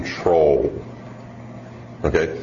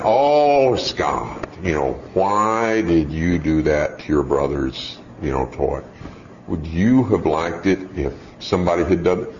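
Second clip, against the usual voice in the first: a hint of a gentle scolding dad; mild lecturing parent; 6 semitones lower than usual. Parent lecturing son Scott about his brother's toy.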